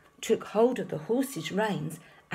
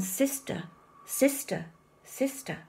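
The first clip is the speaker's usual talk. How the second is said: echo; 4 semitones higher than usual. A narrator's reading. The cave echoing the duck's call back. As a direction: echo fading away.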